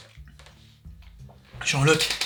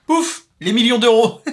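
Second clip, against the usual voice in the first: slow, higher gleeful payoff; excited punchline; 6 semitones higher, 4 dB louder than usual. Pretend. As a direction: savor the gag, drawn out.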